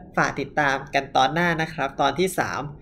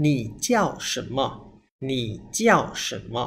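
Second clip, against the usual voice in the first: slow word-by-word. Shown as a demonstration. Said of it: "อ่ะ มา หนึ่ง สอง สาม".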